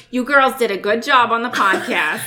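imitating a mom's Boston accent. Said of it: "always told with her accent".

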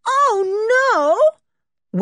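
high loud wail, way up; wailing girl. Acted. Berta protesting to her father, high wail. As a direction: cry it out like a spoilt girl. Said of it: "wailed Berta".

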